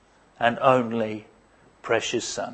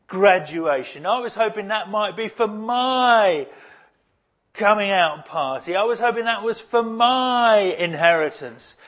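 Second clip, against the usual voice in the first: a hint of a bitter, higher whining complaint; resentful older brother; 5 semitones higher than usual. Older brother complaining to his father, lightly voiced and bitter. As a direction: air the grievance, a touch higher and aggrieved. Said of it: "But he's angry".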